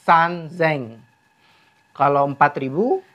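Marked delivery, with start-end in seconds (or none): 0.1-1.0 "san zeng" with a voiced z; repeated sound change. Shown as a demonstration. Teacher repeating for learners, clearly voiced z in zeng. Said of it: "Saya ulang".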